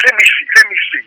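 a mom grabbing for the stopwatch; lightly voiced curious mother; eager mom. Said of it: "Mom said".

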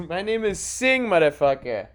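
high put-on Indian accent, laughing in; mock Indian clerk. Clerk correcting his name again, high put-on Indian accent. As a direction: repeat the indignant clerk's line. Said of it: "repeating clerk quote".

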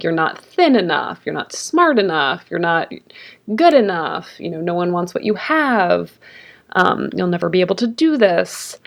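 lightly voiced critical inner voice; mildly mock a nagging critic, stretching key words; judgmental inner critic. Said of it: "more critical, more judgmental voice".

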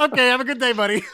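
high, loud sarcastic send-off; sarcastic goodbye. Retold or imitated. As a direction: brush him off with fake friendliness. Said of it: "I go".

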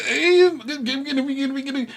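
high, loud stuttering daze; high dazed stammer. Retold or imitated. Voicing dazed stammering minister.

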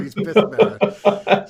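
laughing through the words; drawn-out giggling repeat. Real, not acted.

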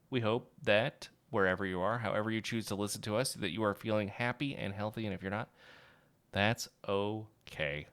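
tender farewell wish; gentle sign-off. Real, not acted.

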